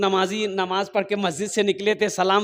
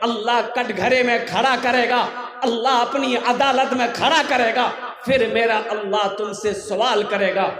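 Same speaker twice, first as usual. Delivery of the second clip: emphatic sermon delivery in measured phrases; preaching; 3 dB louder than usual. Acted. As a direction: preach a solemn warning to the congregation. Preaches a warning of death.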